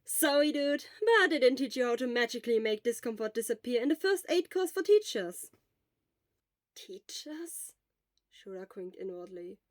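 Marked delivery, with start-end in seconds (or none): 0.1-5.5 a wry grin you can hear; crooked smile, wry. Acted. Friend teasing the ailing Shota, wry and louder. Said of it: "replied with a crooked smile". 6.7-7.7 breathy whispered question rising; whispered disbelief. Acted. Shura doubting Hisashi is a teacher, whispered.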